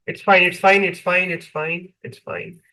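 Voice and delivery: soothing it's fine, dying to a whisper; calm them, then trail off whispering; reassuring, fading to whisper. Real, not acted.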